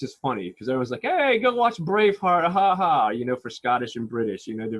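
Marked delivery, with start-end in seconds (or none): 1.0-3.1 high, loud, drawn-out mock heckle; slow, raised-pitch teasing call with ha-ha; jokey crowd imitation. Mimics people's jokey advice on accents.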